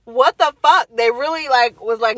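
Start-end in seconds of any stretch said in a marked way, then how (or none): 0.1-0.9 high, loud, fast exasperated outburst; mom-to-be shocked at being kept; stunned disbelief. Retold or imitated. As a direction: blurt it out stunned. Stunned reaction to news.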